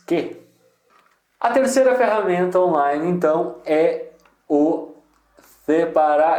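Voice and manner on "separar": Spanish accent. Shown as a demonstration. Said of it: "falar com o meu sotaque em espanhol".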